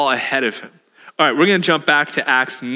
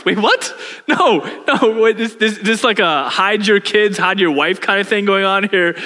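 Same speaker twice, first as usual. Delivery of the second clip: hammed-up alarm at an unwelcome guest; mock panic; 4 semitones higher than usual. Ananias hearing Saul is coming, in mock panic.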